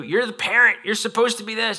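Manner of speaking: put-on high, pleading child complaining to a parent; whiny kid. Kid protesting to the parent, high complaining voice. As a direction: play the kid talking back, up high.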